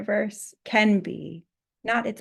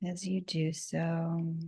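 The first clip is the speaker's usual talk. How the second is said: guided meditation. Acted. Guides a scalp massage.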